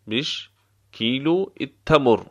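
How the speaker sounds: بش alone, pause, then کیلو التمر; word by word. Shown as a demonstration. Teacher repeating the price question for learners, word by word. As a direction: separate the words for a learner.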